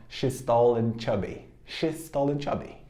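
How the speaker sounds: quick, light, clipped delivery; teacher drilling at speed; fast. Shown as a demonstration. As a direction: rattle it off quickly. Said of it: "bem rapidinho".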